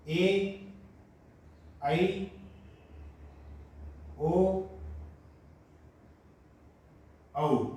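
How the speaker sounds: ए, आई, ओ, औ each held apart with long pauses; slow vowel recital. Shown as a demonstration. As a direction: sound the vowels one at a time. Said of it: "इनका उच्चारण आप देख लें एक बार".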